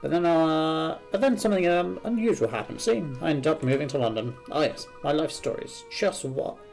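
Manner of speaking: lilting, rambling storyteller; lightly acted chatty game character; lightly voiced chatty Cardiff character. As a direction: spin a life story with relish.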